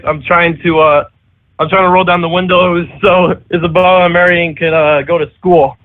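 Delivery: put-on slurred, laughing drunk dad. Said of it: "dad said in a drunk voice".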